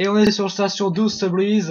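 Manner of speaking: put-on "station douze Sublease" said with a light English accent; mock English accent. Gamer showing viewers the accent, light English accent. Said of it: "vous avez compris l'accent".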